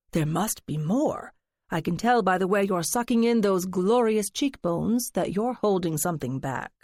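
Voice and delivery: lightly voiced theatrical friend, coaxing; a hint of a dramatic gossip fishing for secrets; flamboyant friend. Friend teasing narrator to spill her secret, lightly flamboyant.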